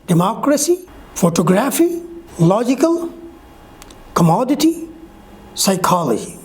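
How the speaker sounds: democracy, photography, logical, commodity, psychology, each stressed three syllables from the end; third-last syllable stressed. Shown as a demonstration. Teacher reading out examples of the stress rule, stressed on deMOcracy, phoTOgraphy, LOgical, comMOdity, psyCHOlogy. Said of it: "put the stress on the third syllable".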